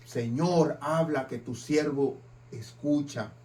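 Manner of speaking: half-hearted quiet plea to the Lord; reluctant prayer. Pretend. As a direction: mumble it as if hoping not to hear. Reluctant prayer when unwelcome.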